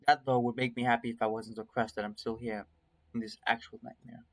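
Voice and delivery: measured first-person story reading; story narration. A narrator's reading. Streamer reading a nightmare tale to viewers, story narration. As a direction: read it as an inner monologue.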